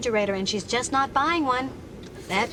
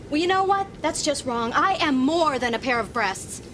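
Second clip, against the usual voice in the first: escalating comedy rant. Acted. Woman fed up with being ogled.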